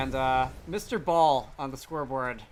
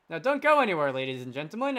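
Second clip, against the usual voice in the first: half-hearted announcer voice; a weak try at a hype announcer; fighting game announcer; 4 dB louder than usual. Pretend. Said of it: "I'm trying to put on an announcer voice and mostly failing".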